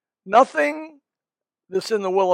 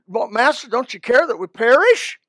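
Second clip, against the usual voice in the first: retold panic; 4 semitones higher, 4 dB louder than usual. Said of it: "They panicked".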